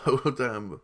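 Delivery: Oh, damn through a laugh. Real, not acted. Fan replaying his own reaction, laughing. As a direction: chuckle out the words. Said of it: "got me like".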